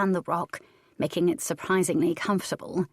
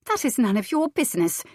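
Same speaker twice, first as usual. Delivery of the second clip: snapping; 6 semitones higher, 3 dB louder than usual. A narrator's reading. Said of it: "Cicely snapped".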